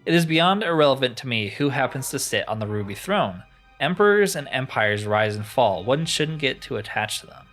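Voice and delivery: mildly grandiose storytelling; a touch of theatrical disdain; lightly voiced disdainful enchanter. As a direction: play a superior, ancient sorcerer, understated. Voices crystal enchanter in game.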